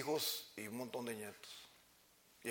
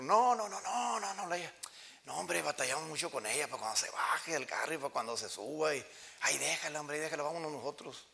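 dismissive refusal; 3 semitones higher than usual. Retold or imitated. Relative refusing to bring mother.

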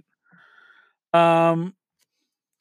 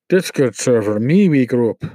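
mock Russian accent, a bit louder; lightly put-on Russian accent on the list; bad Russian accent; 3 semitones lower, 5 dB louder than usual. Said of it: "I'm doing bad Russian accent".

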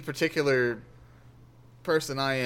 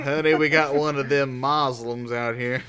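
imagined suspicious homeowner; 4 dB louder than usual. Acted. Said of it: "they're gonna think I'm a Muslim".

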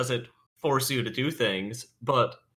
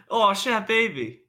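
excited exclaim; 10 semitones higher, 3 dB louder, slower than usual. Pretend. Exclaiming in mock triumph.

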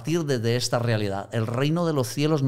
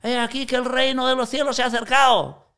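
pitched high, a hammed-up street-preacher cry; mock proclamation, high and ringing; mock street preaching; 12 semitones higher than usual. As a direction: call it out like a pretend preacher in the square. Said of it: "vamos a gritarle a la gente".

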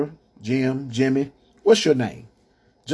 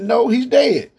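mild emphatic Jesus; 10 semitones higher, 4 dB louder, slower than usual. Acted. Jesus's line voiced in sermon.

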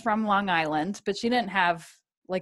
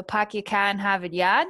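hammed-up Boston accent, r's dropped. Host welcomes listeners to the episode, in Boston accent. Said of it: "do the whole thing in an accent".

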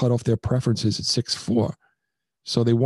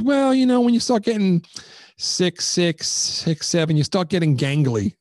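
higher, mock woman's voice; lightly hammed-up woman explaining, pitched up; imitating the woman; 5 semitones higher than usual. Woman from the dating site, imitated, explaining her preference. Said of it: "She goes".

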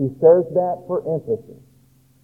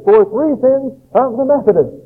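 higher, ringing prophetic proclamation; modern prophet proclaiming; 5 semitones higher than usual. Pretend. A prophet today warning the churches, higher and ringing. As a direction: thunder it out like an old prophet. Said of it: "we would put it somewhat like this".

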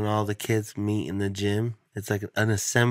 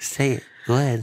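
pushy parent; 3 semitones higher than usual. Acted. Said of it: "parent that's standing right behind you".

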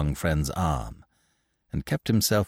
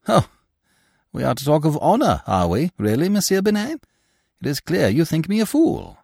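high, mocking disbelief; mock the very idea of honor; scornful laugh; 10 semitones higher, 4 dB louder than usual. A narrator's reading. André Louis scoffs at Binet's talk of honor, mocking and high. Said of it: "André Louis laughed".

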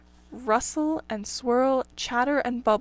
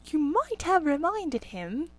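grumbling rabbits; 5 semitones higher, slower than usual. Acted. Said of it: "they all started grumbling".

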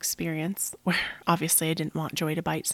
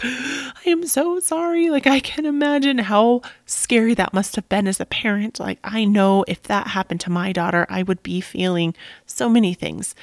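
tearful meltdown; 4 semitones higher, 6 dB louder than usual. Retold or imitated. Owner apologizing to the angry father, breaking down loud and high. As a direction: pour it out like you're breaking down in tears. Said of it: "I just fucking lost it".

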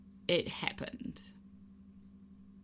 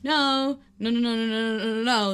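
panicked pleading; 3 semitones higher, 6 dB louder than usual. Retold or imitated. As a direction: beg in rising panic. Panic building at plane door.

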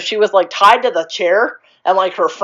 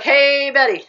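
chirpy lady; 8 semitones higher than usual. Retold or imitated. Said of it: "she's like".

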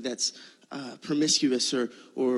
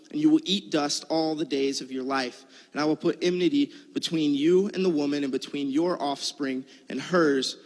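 scripture reading. Acted. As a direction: read the verses out with weight. Reads scripture aloud.

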